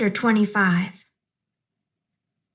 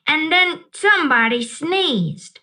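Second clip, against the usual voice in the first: put-on a child's eager shout, higher; 5 semitones higher than usual. Little Sweetie Pie interrupting the story, eager shout. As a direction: blurt it out gleefully. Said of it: "Sweetie Pie shouted".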